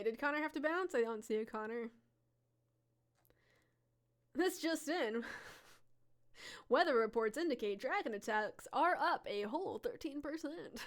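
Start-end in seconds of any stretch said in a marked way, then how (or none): 4.4-10.8 breaking news anchor, laughing; playful newsreader delivery; news reporter voice. Pretend. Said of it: "someone's gotta tell the news".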